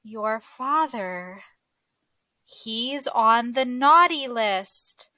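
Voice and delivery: slow, lightly voiced Santa breaking news; a hint of Santa, taking his time; grave Santa.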